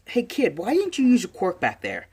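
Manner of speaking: high-pitched hero calling back; calling to kid. Acted. Hero turns to question the boy, calling out high.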